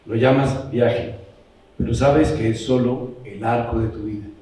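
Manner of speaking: measured poetry recital with long pauses; poem reading. Acted. Reading a shared poem to the group, measured recital. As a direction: recite line by line, pausing after each phrase.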